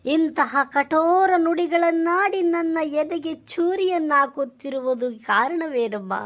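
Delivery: lightly hammed stage-drama plea, slow at first; a hint of a theatrical devoted son lamenting; mock mythological son. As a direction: plead with mother like an old play hero. Son pleads in mock-classical style.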